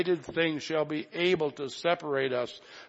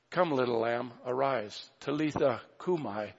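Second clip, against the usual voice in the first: a light touch of a mother's soft morning call; mother waking her daughter; 3 dB quieter than usual. Retold or imitated. Imagined mother waking her daughter, softly tender. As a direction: coax her gently awake, understated. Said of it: "if the mother ever said that to the daughter".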